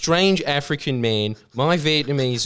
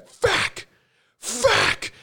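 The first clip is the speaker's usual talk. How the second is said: mock cursing. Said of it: "you hear her just go".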